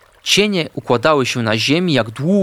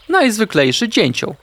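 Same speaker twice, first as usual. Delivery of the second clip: plain reading voice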